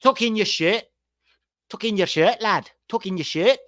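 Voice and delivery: high nagging Scouse dad; lightly voiced nagging father; mock Carragher dad. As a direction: repeat it like a fussy dad on the sideline. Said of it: "all that Jamie Carragher cares about".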